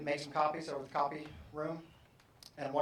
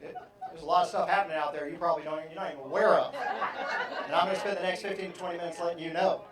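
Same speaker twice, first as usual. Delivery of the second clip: eager storyteller; 6 dB louder, faster than usual. Acted. Late I launching into story.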